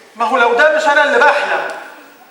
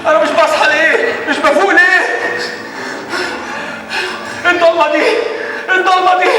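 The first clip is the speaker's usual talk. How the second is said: despairing outcry; 5 semitones higher than usual. Acted.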